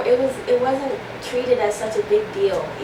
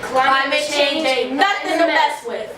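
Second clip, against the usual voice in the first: loud, slow slogan shout, pitched high; too loud; 6 semitones higher, slower than usual. Acted. Students say the slogan to camera on the count of three, too loud. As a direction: belt out the slogan slowly on cue. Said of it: "I said it too loud".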